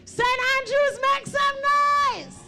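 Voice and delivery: crowd call-out. Real, not acted. MC calls out each parish.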